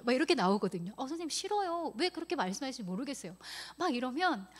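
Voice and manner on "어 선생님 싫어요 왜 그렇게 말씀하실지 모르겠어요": higher, hurried imitation of a balking pupil; pupil's retold whine, pitched up; protesting child. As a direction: lightly voice a child saying no to teacher. Acts out children refusing.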